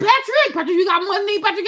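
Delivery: normal talking voice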